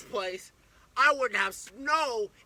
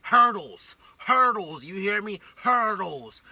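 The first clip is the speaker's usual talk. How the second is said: louder bursts on each word; loud retold call; 8 dB louder, slower than usual. Dog owner voicing the dog's wild hurdling, loud. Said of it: "Man said".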